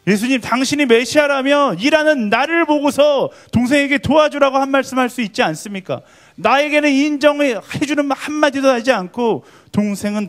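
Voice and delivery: high, loud, impassioned accusation; furious protest. Retold or imitated. Martha confronting Jesus over her idle sister, furious protest. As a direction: let the acted grievance explode, pitch right up. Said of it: "예수님께 막 분노하기 시작했을".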